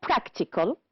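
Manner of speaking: Practical with PRAC stressed; stress on first syllable. Shown as a demonstration. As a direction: lean on the start of Practical. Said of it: "The first one".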